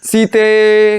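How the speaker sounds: "सीते" held as a long call; demonstrating the long alaap on "सीते". Shown as a demonstration. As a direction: draw out "सीते" like calling someone far away. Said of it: "लंबा आलाप ले लेंगे हम".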